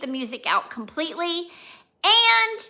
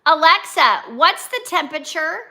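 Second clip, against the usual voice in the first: louder, clear command to a smart speaker; calling to Alexa; 4 dB louder than usual. Shown as a demonstration. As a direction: call out the question to the device. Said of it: "listen to my new Alexa voice".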